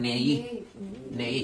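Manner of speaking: "নেই" as ne joined onto i; "নেই" with a clear "ei" glide; joined vowel glide. Shown as a demonstration. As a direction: link the e to the i in "নেই". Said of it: "এটা গিয়া এরে ধরবে".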